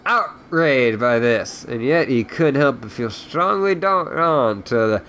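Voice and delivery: reading a novel aloud; story narration. A narrator's reading. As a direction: narrate the book in storyteller mode. Reads the book aloud.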